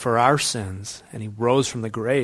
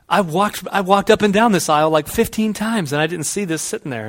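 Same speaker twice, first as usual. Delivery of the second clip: higher, exasperated retelling; mock exasperation; 5 semitones higher, 3 dB louder than usual. Shopper who searched aisle five in vain, mock exasperation. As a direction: imitate a shopper fed up with searching.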